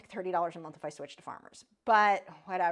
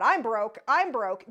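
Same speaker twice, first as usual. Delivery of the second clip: louder, half-joking I'm broke; mock moan about money, louder; mock complaint; 7 dB louder, slower than usual. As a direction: toss it off as a running gag. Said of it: "make comments about".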